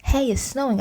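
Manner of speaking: high delighted squeal; dance around giggling at the feathers; giggly excited. A narrator's reading. Girl amid falling feathers, high giggly excitement. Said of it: "I danced around very giggly".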